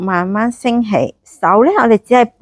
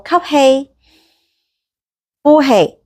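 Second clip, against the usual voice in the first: slow breath counting; 6 semitones higher, much slower than usual. Shown as a demonstration. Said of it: "好，吸氣".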